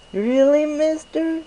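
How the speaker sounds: very high, loud amazed squeak; surprised pony. Acted. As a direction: gasp it out in wide-eyed disbelief. Derpy surprised by gift.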